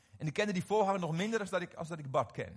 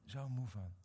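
slow, soft and worn out; softer, slower, tired retelling of a crying friend; weary tearful confession; 3 semitones lower, 5 dB quieter, slower than usual. Retold or imitated. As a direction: voice a broken man admitting exhaustion. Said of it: "En terwijl hij huilde".

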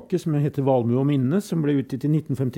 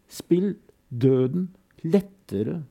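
shouted command; 3 semitones higher, much slower than usual. Acted. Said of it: "Han roper".

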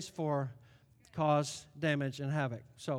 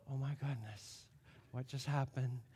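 stunned; 5 semitones lower, 10 dB quieter than usual. Retold or imitated. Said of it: "And I'm like".

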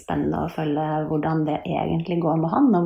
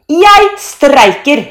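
high, loud, drawn-out declaration; defiant shout; 9 semitones higher, 12 dB louder, much slower than usual. A narrator's reading. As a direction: announce your revolt at full volume. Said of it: "roper Thor". (trassig, langt rop)

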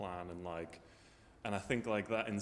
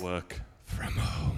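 smug yuppie drawl; 6 dB louder, much slower than usual. Shown as a demonstration. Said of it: "No, but if you say it like this".

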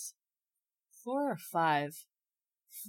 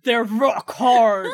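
laughing; 4 semitones higher, 5 dB louder, much slower than usual. Pretend. Joking, laughing.

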